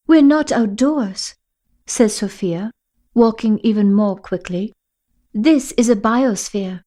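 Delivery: put-on urgent girl leading the way; Sophia's voice. Sophia explains.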